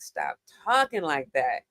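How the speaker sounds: low, slow, lightly voiced dad; a hint of Dad laying down the rule; dad's scolding. Dad correcting his daughter's New York accent, lightly imitated low and slow. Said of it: "my dad was on me like".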